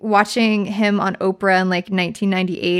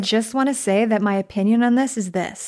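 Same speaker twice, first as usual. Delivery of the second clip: chirpy imitation of a rambling Q&A guest; lightly voiced; mock audience member. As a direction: play the self-important fan asking no question.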